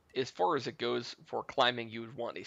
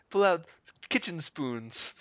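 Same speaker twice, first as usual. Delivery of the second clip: words through laughter; giggling while talking; laughing; 4 semitones higher, 3 dB louder than usual. Real, not acted.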